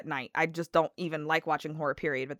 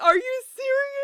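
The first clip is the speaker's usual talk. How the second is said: very high, loud indignant question; mock-appalled, voice shooting up; retold outrage; 6 dB louder than usual. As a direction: imitate an incredulous outburst. Retold outrage at husband's joke.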